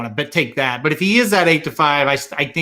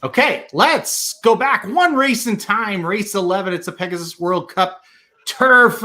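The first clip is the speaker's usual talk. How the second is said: booming race announcer voice; 3 semitones higher than usual. Pretend. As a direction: announce it like a racetrack caller. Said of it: "channeling my inner Slim with this announcer voice".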